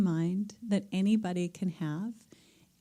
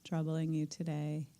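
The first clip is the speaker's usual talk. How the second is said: whisper; 2 semitones lower, 5 dB quieter than usual. Acted. Guided release on the exhale.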